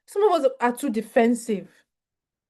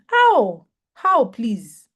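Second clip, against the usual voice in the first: indignant how; 5 dB louder, much slower than usual. Real, not acted. Indignant retort to critic.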